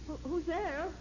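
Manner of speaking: nervous, rising call; jumpy and scared; startled. Acted. Startled by a voice at night.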